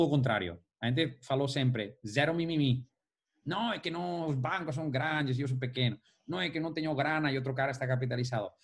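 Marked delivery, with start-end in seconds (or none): 3.5-8.5 whiny excuse-making voice; whiny complaining. Retold or imitated. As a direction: moan like a complainer. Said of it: "Cara, isso é mimimi".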